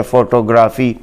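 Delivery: फोटोग्राफी said foto-GRAA-fee with long o and a; फोटोग्राफी the common mispronunciation, long vowels; फोटोग्राफी as usually read from Urdu script; wrong local pronunciation. Shown as a demonstration. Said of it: "हम इसको पढ़ते हैं".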